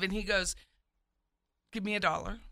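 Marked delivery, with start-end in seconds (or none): 1.7-2.4 a hint of deadpan calm, softer; real calm. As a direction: say it calm and flat like a therapist. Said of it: "Real calm".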